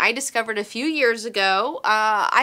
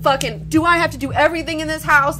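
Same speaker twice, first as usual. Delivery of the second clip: exasperated mom; 6 semitones higher, 6 dB louder than usual. Retold or imitated. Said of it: "they're like".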